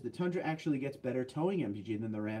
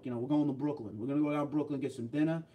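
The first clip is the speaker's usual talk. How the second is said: New York accent; 2 semitones lower, faster than usual. Shown as a demonstration. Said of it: "that's your New York".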